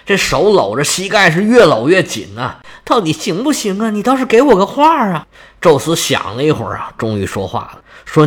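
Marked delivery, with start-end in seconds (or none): 2.9-5.2 1 impatient. A narrator's reading. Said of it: "可就有点着急了".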